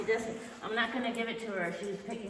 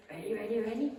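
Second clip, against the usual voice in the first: higher, bouncy repeated ready; eager dog call; 3 semitones higher than usual. Real, not acted. Trainer revving up her dog before the toss, eager and bouncy. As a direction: tease the dog into playing.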